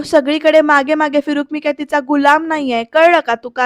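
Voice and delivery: mild mock yell at his wife; retold angry yell. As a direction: tell her off loudly, not a full shout. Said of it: "शोभावर ओरडतच येतो".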